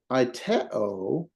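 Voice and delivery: AITEO with the stress on TE; stress on middle syllable. Shown as a demonstration. Teacher showing where the accent goes, middle syllable stressed. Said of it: "where we're gonna put the accent".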